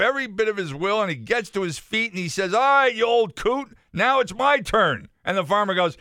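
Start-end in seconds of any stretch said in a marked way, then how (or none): 2.5-5.1 defiant shout. Acted. Lawyer vows revenge in joke.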